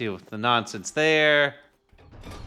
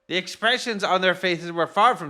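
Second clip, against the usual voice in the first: lofty, self-important gourmet, pitched up; pompous voice; 3 semitones higher than usual. Acted. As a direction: play a haughty chef showing off. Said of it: "He sounds like he would have a pompous voice".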